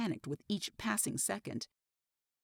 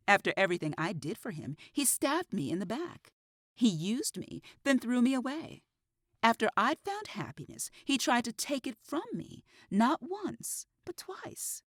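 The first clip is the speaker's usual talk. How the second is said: climbs higher and louder with resentment; rising bitterness; 5 semitones higher, 4 dB louder than usual. Acted. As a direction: let the grievance build to a peak. Killer reliving betrayal, rising.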